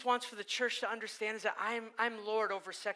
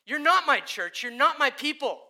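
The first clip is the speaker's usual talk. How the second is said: loud, stern voice of a judging Jesus; Jesus as fierce judge, loud and stern; thunderous Jesus; 5 semitones higher, 12 dB louder than usual. Acted. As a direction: proclaim it like fire and judgment. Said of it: "And Jesus says".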